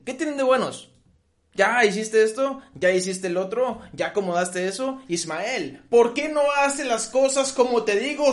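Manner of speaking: scolding mother. Retold or imitated.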